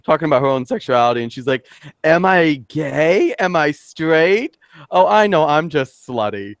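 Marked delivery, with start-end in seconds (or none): 2.0-5.4 drawn-out musing questions, pitched higher; Margaret Cho. Retold or imitated. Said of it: "a skit that Margaret Cho did". 5.5-6.6 slow comic punchline in quotation; Margaret Cho. Retold or imitated. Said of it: "a skit that Margaret Cho did".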